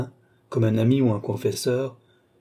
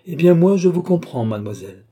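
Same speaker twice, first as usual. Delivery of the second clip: high, loud counter-attack; emphatic, confronting answer; forceful retort; 6 semitones higher, 5 dB louder than usual. A narrator's reading. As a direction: hit back loudly, voice raised. Doctor retorts to her denial.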